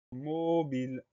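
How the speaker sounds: measured presentation of a spelling word; drawn-out dictation word. Shown as a demonstration. Teacher presenting the next word to pupils, drawn out. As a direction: set the word apart for learners.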